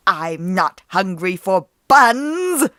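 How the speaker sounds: the disguise slipping; menacing villain. A narrator's reading. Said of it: "said the person in her grandmother's bed".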